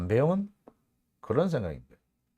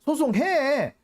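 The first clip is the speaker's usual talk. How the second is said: imagined nagging; 7 semitones higher than usual. Retold or imitated. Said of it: "닥달을 해서".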